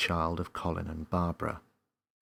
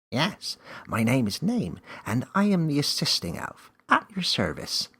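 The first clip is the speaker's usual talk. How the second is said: high, louder proud elf; 8 semitones higher, 6 dB louder than usual. A narrator's reading. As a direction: present yourself grandly.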